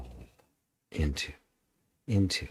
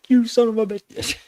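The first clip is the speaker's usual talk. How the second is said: high, loud mock curse; hammed-up curse with a laugh after; mock angry outburst; 14 semitones higher, 6 dB louder than usual. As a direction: burst out in playful fake rage. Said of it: "It's like".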